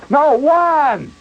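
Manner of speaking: high sharp cry of no, one; exasperated yell. Retold or imitated. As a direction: snap it out, fed up with the spelling. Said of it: "don't raise your voice".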